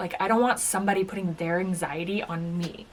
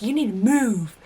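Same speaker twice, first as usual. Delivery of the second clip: retold rude demand; 5 dB louder than usual. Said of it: "being really rude".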